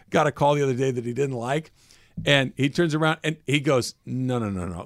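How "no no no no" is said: gentle, polite no, a touch softer; polite refusal. Retold or imitated. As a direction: calmly turn down the call, politely. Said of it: "Like, very politely, very subtly".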